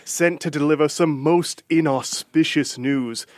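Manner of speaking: slow, booming royal herald proclamation; town crier. Acted. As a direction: announce it like a medieval crier. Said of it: "I can't do this bit anymore".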